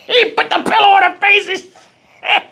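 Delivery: laughing while imitating a sob; cry-laugh through the words. Real, not acted.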